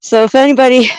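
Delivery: winded from the uphill climb; talking while breathless on a hike; out of breath. Real, not acted. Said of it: "I'm already out of breath".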